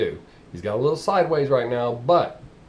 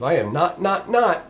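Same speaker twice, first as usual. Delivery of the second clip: each "not" punched separately; emphatic triple not; 4 semitones higher than usual. Retold or imitated. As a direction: hammer "not, not, not" so nobody skips it. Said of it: "I always put the triple nots when I'm making sure you don't skip over".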